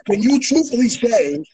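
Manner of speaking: choppy phone line; breaking up. Real, not acted. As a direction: call cutting in and out. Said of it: "Yo, you're breaking up".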